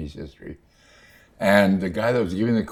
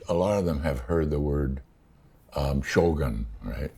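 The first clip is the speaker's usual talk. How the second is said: talking around a candy; words round a sucked candy; mouth full. Real, not acted. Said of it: "I'm chewing a candy".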